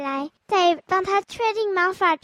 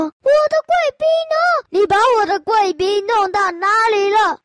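loud asking; 3 semitones higher, 4 dB louder than usual. Acted. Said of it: "大声地问".

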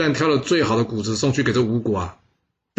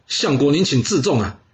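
rebuking retort; 5 semitones higher than usual. Acted. Bo Pi rebukes the minister in a raised, scolding voice. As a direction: tell him off, mildly heated. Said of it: "大声的呵斥说".

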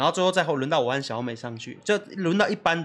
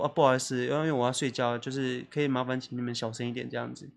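timid meek request; 5 semitones lower, 7 dB quieter than usual. Retold or imitated. 小声请求邻居.

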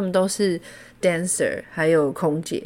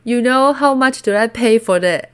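put-on drunk man quoted; 4 semitones higher, 5 dB louder than usual. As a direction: drag it out like a tipsy man. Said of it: "他就跟我说". (醉汉般拖长抱怨)

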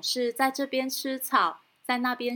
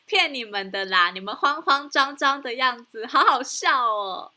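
teasing; 4 dB louder than usual. Acted. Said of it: "指着他们笑说".

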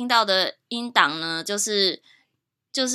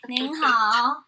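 whispered hello. Real, not acted. Greeting listeners on new recording.

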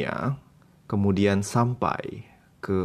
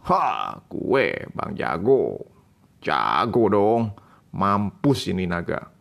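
cocky boasting hero; slower than usual. Acted. Hero boasting after killing dragon.

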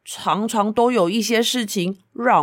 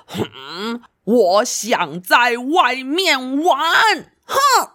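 sulky whine; much slower than usual. Acted. Wyatt sulking, wants outside.

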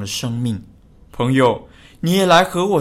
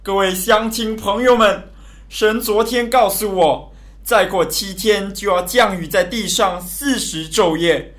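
public announcement building to a louder appeal; loud proclamation. Acted. Noah proclaims to townsfolk at the ark door, voice rising into a loud plea. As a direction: address the crowd, then call out to them. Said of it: "挪亚大声地宣告说".

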